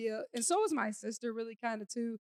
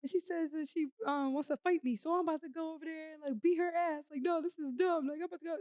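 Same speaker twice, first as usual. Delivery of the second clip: put-on higher, heated ranting about the girl; fired up and ready to go fight; sister's angry rant; 6 semitones higher than usual. Sister storming in, ready to fight.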